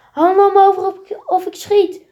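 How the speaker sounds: high, loud command; calling out. Acted. Police officer to the thief, shouting command. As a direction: bark the order at the thief. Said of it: "roept de politie".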